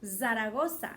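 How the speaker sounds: "Zaragoza" again with the Spanish tapped r; Spanish "Zaragoza" said fondly; Spanish accent. Shown as a demonstration. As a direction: go back to the Spanish "Zaragoza", zah-rah-GO-sah. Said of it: "I like it in Spanish better".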